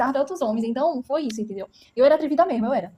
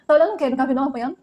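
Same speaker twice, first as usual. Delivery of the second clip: defiant challenge; 2 semitones higher, 4 dB louder, faster than usual. Retold or imitated. Teen girl yelling at neighbours who watch her beating, defiant. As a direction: challenge the staring crowd, chin up. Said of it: "eu dizia".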